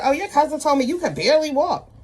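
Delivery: high, nosy gossip voice; imitating the woman repeating gossip; mocking the woman. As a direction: pitch her up and make it prying. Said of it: "She was like".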